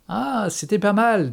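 high, drawn-out approval; appreciative, stretched-out compliment; sincere praise. A narrator's reading. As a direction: give slow, sincere credit. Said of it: "dis-je tout à fait sincère".

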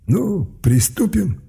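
high, very slow gloating mage; sinister torturer. Acted. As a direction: savour the start of torture. Torturer mage starting work.

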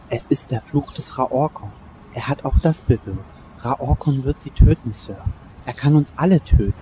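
langsam, ernst und düster; beschwörend langsam warnen; unheilvolle Warnung. Acted. Butler warnt vor Fluch. (Butler warnt vor dem Fluch: langsam, düster)

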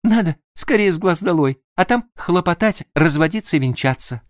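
woman thrilled about the plan; joyful exclamation. Acted. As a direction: exclaim with delight. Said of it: "радостно воскликнула она".

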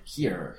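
here with a deep throat R, voice low; english r. Shown as a demonstration. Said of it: "Mira, tócate". (here con R de garganta)

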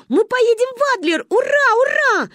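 высокий восторженный крик; детская радость до визга; ликуя. Acted. Дети радуются поездке. (ликующе, громко)

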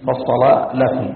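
فصل لكم slowly, heavy dark first l, light second; thickened first lam. Shown as a demonstration. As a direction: make only the l of فصل thick, slow demonstration. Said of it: "تنبه إلى تغليظ اللام الأولى". (فصل لكم بتغليظ اللام الأولى فقط)

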